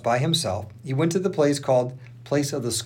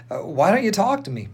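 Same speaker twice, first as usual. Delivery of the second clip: higher-pitched, insistent question; demanding; 8 semitones higher than usual. A narrator's reading. Pilate questions the silent Jesus, demanding. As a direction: press for an answer, mildly exasperated. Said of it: "Pilate demanded".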